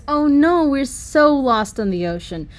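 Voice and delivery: high, loud cry of panic that eases into a worried wail; sudden alarm at being lost; panicked. Acted. Sea Wave panics, lost at sea with friends. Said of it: "Sea Wave said in a panicked voice".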